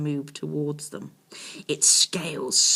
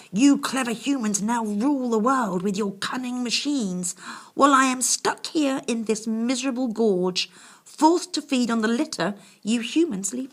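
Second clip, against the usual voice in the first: put-on higher, louder lament of a stuck old beast; self-pitying dragon; 6 semitones higher, 5 dB louder than usual. A narrator's reading. Dragon complains to the boys, higher and louder. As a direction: grumble bitterly about clever humans.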